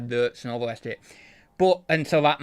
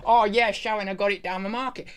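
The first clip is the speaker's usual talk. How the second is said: working class market voice; 5 semitones higher than usual. Retold or imitated. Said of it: "market it as".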